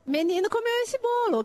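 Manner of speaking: teacher playing with the children, bright sing-song demo. Shown as a demonstration. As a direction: lift it up like a game for kids. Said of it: "O que que sobrou?".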